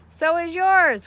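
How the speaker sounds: put-on high, loud boyish retort; crying out. A narrator's reading. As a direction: yell it right back at her. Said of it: "cried Avery".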